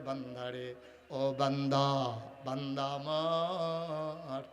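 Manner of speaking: sung sermon, God tenderly calling the servant; lilting chant, mostly subdued; melodic preaching. Real, not acted.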